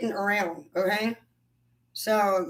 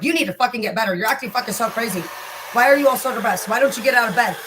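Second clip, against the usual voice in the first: mock nagging; 4 dB louder, faster than usual. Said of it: "negative people are like".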